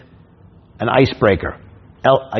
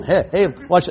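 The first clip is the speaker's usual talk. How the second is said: show-off heckler; 6 semitones higher, 4 dB quieter than usual. Retold or imitated. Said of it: "he gonna sit right in chair".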